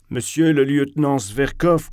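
declaimed address to an officer; speech opening. A narrator's reading. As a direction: open a defiant toast formally. Narrator opens a defiant speech.

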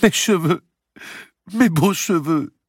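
high, loud, slowing tearful wail; sobbing. A narrator's reading. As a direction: wail in grief over a loss. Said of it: "sanglotait Blanche".

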